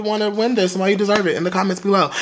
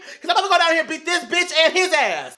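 mock polite demand; 10 semitones higher than usual. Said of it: "I was like".

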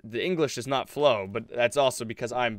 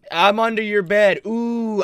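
raised, drawn-out ghostly tease; higher mock-ghost "ooh"; mock spooky voice; 9 semitones higher, 8 dB louder, slower than usual. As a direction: pretend to haunt someone playfully. Imitates friend spooking them.

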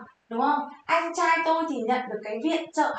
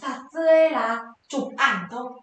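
slow teaching read; 3 dB louder, much slower than usual. Shown as a demonstration. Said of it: "Chúng ta có gì đây".

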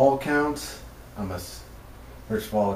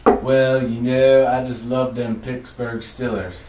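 bad Boston accent; 5 dB louder than usual. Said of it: "Why the Boston accent sometimes?".

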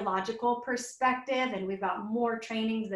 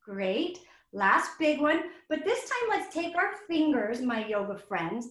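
put-on teacher to kids; 3 semitones higher than usual. Shown as a demonstration. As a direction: coax little ones into the next step. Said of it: "This is how I would tell the kids in my class".

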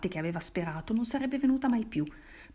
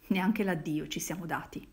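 stammered. Acted. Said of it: "balbettò".

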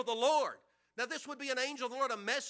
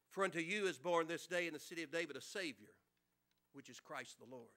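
softer, lower, unhurried; reverent reading; 7 semitones lower, 5 dB quieter than usual. Acted. Preacher reading the verse to the church, hushed and reverent.

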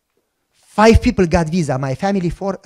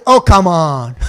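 laughing protest; 2 semitones lower, 6 dB louder, slower than usual. Retold or imitated.

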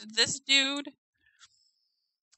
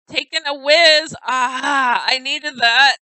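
reading Nori's line; 3 semitones higher, 11 dB louder, slower than usual. Retold or imitated. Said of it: "Nori says".

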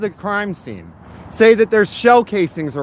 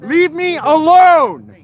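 higher, rising anger at police; calm turning angry; 5 semitones higher than usual. Real, not acted. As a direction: go from steady to angry pleading. Confrontation with police escalating.

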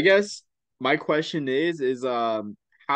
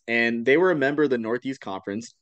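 stuffy, congested voice; talking through nasal congestion. Real, not acted. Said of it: "I don't know why I'm so congested".

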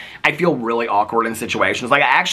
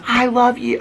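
retold gushing fan; 13 semitones higher, 3 dB louder, slower than usual.

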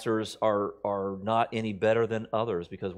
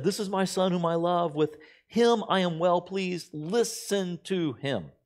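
raised, slow solemn voice from the cloud; voice of God; 7 semitones higher than usual. Acted. Scripture reader giving God's words, solemn. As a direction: proclaim it like God from heaven.

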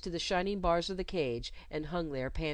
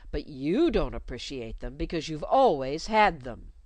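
scolding; 6 dB louder than usual. Acted. Governess scolding the ungrateful child, loud. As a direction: scold her for ingratitude.

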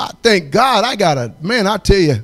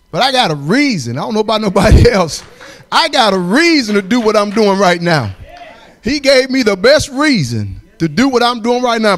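raised, louder testimony pushing into praise; preaching build; 2 semitones higher, 3 dB louder than usual. Acted. Testifying to the church, rising into preaching. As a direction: preach it out with growing fire.

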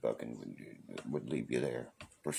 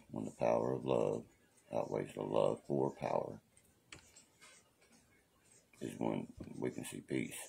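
quoting a rock musician; 5 semitones lower than usual. Retold or imitated. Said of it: "That's how he says it".

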